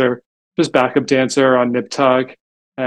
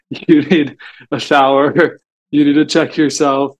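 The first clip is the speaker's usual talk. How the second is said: half-laughing through the words, slowly; laughing mock scolding. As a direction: tease them while cracking up. Telling models to freshen up.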